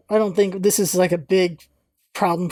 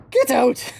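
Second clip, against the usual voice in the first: raised, higher acted order; 5 semitones higher than usual. Cabin's occupant to unwanted visitors, raised-voice order to leave. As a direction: throw them out with a sharp command.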